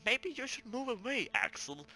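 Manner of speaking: ordinary talk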